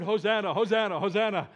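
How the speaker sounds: repeated shouting. Acted. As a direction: call it out over and over. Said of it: "Repeatedly shouting that word".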